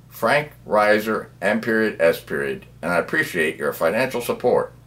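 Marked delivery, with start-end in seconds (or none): 0.1-2.7 dictating. Shown as a demonstration. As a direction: read it out for typing. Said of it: "simply type in my name".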